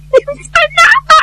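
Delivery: long high wailing call; crying out her name. Acted. Kneeling Zhao Bi calls to the widow with a high wail. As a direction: throw the name out on a high cry.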